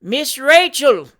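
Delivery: slow, loud, high shout. A narrator's reading. Fat boy naming the culprit in her ear, shouting. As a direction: shout each word into a deaf ear. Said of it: "shouted in the old lady's ear".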